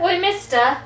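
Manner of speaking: high, loud mock Cockney shout; pestering Cockney heckle; Luz Thorin. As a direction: yell it in a hammed-up Cockney accent. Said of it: "or a Cockney British accent".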